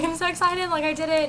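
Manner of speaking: re-enacted giddy announcement; retold excitement. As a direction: mimic telling friends the big news. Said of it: "telling all my friends".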